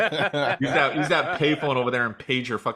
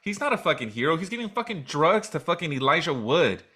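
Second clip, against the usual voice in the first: rising angry rant, a bit louder; heated rant; 4 semitones higher, 3 dB louder than usual. Real, not acted. Ranting about Josh Hartnett, heated and fast. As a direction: vent about the actor, fast and hot.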